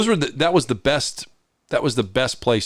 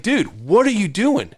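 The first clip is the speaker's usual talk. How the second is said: higher, slow, incredulous; slow mock alarm, pitched up; retold disbelief; 7 semitones higher than usual. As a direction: stretch it out in disbelief. Cop fumbling with gun.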